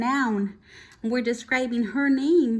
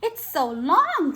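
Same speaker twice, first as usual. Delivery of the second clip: mock teasing; 6 semitones higher, 6 dB louder, slower than usual. Classmate teasing, drawn out.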